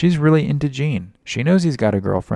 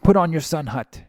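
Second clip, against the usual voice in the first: slightly higher accented "Put on your sun hat"; supervisor's accent; 6 semitones higher than usual. Shown as a demonstration. Supervisor ordering a water break, accented. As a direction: repeat how the supervisor says it. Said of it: "That's how he says sun hat".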